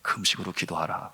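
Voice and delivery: low, soft inner voice; a quiet, restrained command; Holy Spirit's voice. Retold or imitated. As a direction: say it low, as a voice in the heart. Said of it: "성령께서 제 마음에 주시는 음성은".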